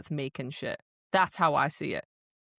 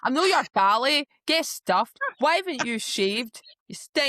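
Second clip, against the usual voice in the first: high, loud hammed-up Ned accent; 7 semitones higher, 5 dB louder than usual. Mocking her telling him off, exaggerated Ned accent. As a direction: put on a stroppy Scottish Ned voice. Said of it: "giving her a right Ned accent".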